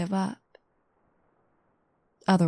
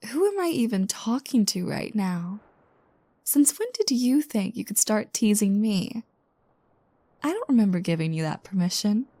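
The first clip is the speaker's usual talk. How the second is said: mock offended. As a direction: pretend to be outraged at the teasing. Playfully offended at being teased.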